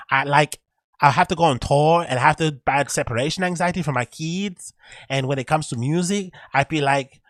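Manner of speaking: put-on high, loud Bronx Latina accent. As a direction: do a bad Latina accent in the style of a rapper. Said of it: "my bad Latina accent aside".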